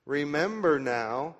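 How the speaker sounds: "Remember" drawn out and weighted, slow; slow down and lean on "Remember"; "Remember now" said slowly with weight on "Remember"; stress on remember. Shown as a demonstration. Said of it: "I would underline that word".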